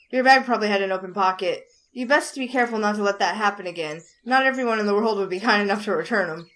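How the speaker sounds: light Southern drawl. Acted. Ted advises a stranger about the pins, light Southern drawl. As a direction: speak with a touch of a Southern accent. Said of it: "It was the drawl that gave it away".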